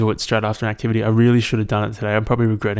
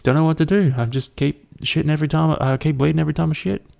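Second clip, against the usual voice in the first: mock-earnest caller voice, somewhat higher; imitated oversharing caller; 3 semitones higher than usual.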